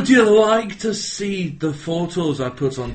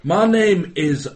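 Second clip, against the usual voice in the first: bad Scottish accent. Fake knitting-show host greeting listeners, in a bad Scottish accent. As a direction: put on a poor Scottish accent to welcome listeners. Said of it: "why my Scottish accent's so bad".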